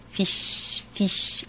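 fish with the i pulled toward ee; Australian ee-ish vowel. Shown as a demonstration. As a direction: stretch fish toward feesh, Aussie style. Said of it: "towards the double E sound".

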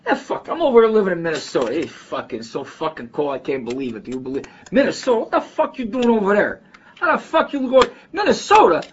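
animated imitated Chicago street talk, pitch leaping high; Chicago neighborhood accent. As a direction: fall into an incredulous, high-pitched Chicago guy rant. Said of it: "Fall into it like that".

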